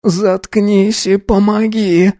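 put-on a girl growls shut up; growled. A narrator's reading. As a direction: bark it at him. Girl voiced.

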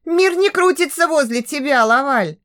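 put-on a touch of a yelling girl; defiant girl shouting. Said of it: "крикнула она". (девичий голос, слегка выкрикивая)

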